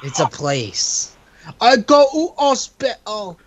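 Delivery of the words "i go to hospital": slow yokel drawl; country bumpkin voice. Retold or imitated. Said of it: "country bumpkin when you say it".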